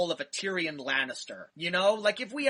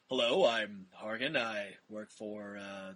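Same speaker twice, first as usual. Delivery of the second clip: low, quiet, even conversational goblin; calm monotone servant; 8 semitones lower, 5 dB quieter than usual. Retold or imitated. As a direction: pleasant butler voice that never changes pitch. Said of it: "it never gets higher or lower than that".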